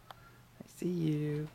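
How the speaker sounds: slow, drawn-out peekaboo whisper. Pretend. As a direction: whisper it slowly, teasing.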